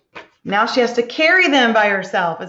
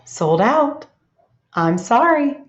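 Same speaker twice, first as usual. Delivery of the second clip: reading the hen's line; slower than usual. Retold or imitated. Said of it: "did she say".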